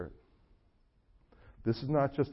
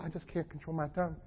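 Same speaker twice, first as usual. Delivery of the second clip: whiny excuse; 5 semitones higher, 9 dB quieter than usual. Retold or imitated. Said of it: "I've known people".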